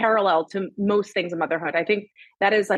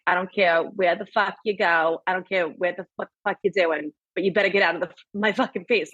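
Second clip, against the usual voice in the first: put-on mother's New York accent. Daughter mimicking her overstimulated mother, New York accent. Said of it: "in her New York accent".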